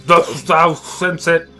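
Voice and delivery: put-on booming old tree voice. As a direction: read it like a grand old tree. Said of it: "You just be like".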